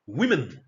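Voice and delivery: WOMEN said WIM-in; plural pronunciation. Shown as a demonstration. Teacher models the plural for learners, WOMEN said WIM-in. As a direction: say WOMEN with a short i in the first syllable. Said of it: "is pronounced as women".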